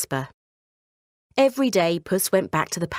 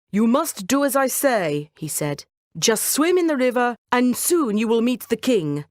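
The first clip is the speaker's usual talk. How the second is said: higher, commanding cat; bossy cat; 5 semitones higher than usual. Acted. Cat instructing Jasper to swim, commanding. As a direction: give firm orders to your master.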